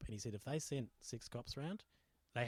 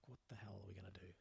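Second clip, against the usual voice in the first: whispering; 6 dB quieter, much faster than usual. Retold or imitated. Panicked retold thought.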